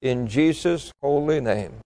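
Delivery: earnest pastor's prayer in measured phrases; public prayer. Real, not acted. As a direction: plead with God for the congregation, phrase by phrase. Leads the congregation in prayer.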